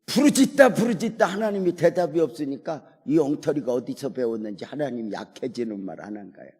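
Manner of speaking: normal talking voice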